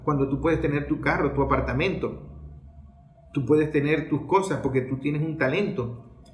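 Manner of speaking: social media manipulator. Retold or imitated. Social media luring a young Venezuelan away, low and coaxing. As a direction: sweet-talk him into resentment, low and confiding. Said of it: "¿cómo la atacan?".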